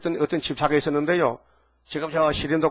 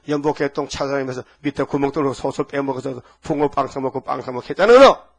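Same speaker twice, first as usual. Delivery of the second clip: furious scolding; 7 dB louder than usual. Retold or imitated. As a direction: roar at the thief who stole the offering money. Jesus scolding the thief. (도둑을 꾸짖는 격노한 고함)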